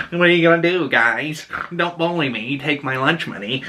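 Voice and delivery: a hint of a bullied nerd pleading; nerdy Mickey seventeen. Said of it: "like, nerdy".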